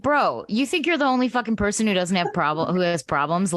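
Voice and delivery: retold shout, only slightly lifted; mild mock yell. Yelling at the TV at the bomber, a mild mock yell. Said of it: "I was yelling at the T V".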